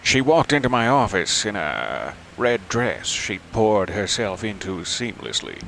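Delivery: hard-boiled noir narration; noir detective. Acted. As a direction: narrate like a pulp gumshoe. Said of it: "This is pulpy".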